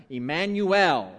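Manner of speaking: Emmanuel drawn out slowly, every syllable clear; leading kids through Emmanuel slowly; slow model pronunciation. Shown as a demonstration. Pastor teaching children a name, slow and clear. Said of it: "Say Emmanuel with me".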